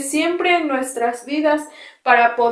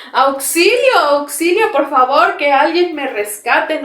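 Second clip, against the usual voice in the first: mock cry for help; 2 semitones higher than usual. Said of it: "¿qué vamos a gritar?".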